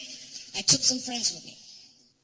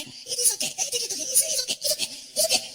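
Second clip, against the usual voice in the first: much higher, cheerful driver brushing it off; Saudi driver voice; 13 semitones higher than usual. Retold or imitated. Driver reassuring nervous comedian in the SUV, high and breezy. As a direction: soothe him with a sing-song it's okay.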